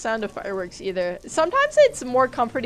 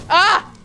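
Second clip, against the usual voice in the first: high, loud shriek of fright; startled scream; 9 semitones higher, 8 dB louder than usual. Real, not acted. Player shrieking when a mob jumps her, startled scream. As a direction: jump out of your skin.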